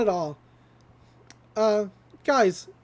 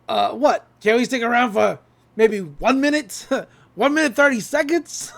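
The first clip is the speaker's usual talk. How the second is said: louder, pleading, breaking into laughs; stalling through laughter; 5 dB louder than usual. Retold or imitated. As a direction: bargain for time while giggling. Stan stalls the agents, laughing.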